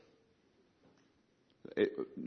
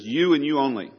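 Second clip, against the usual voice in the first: "you" hit louder, both times; emphatic you; 3 semitones higher, 5 dB louder than usual. Acted. Preacher explaining what David means, emphatic. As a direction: lean firmly on "you" and "you only". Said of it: "or this emphatic "you".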